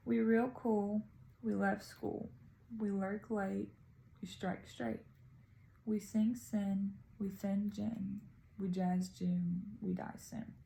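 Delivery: slow, measured poem reading; poem recital. Acted. Student reading a short poem aloud for a video, measured recital. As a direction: recite it in short, evenly paced phrases.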